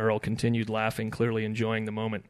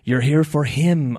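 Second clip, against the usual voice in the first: raised, slow, loud shrimp voice; talking shrimp; 5 semitones higher, 10 dB louder, slower than usual. A narrator's reading. Shrimp asks Ed about his quarry, slow shrimp voice. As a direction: ask it slowly, loudly, as a small critter. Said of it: "asked one of the shrimp".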